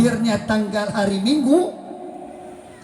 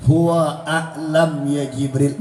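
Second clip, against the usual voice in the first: solemn Prophet reply; 5 semitones lower, slower than usual. Acted. Prophet answers Jibril in story.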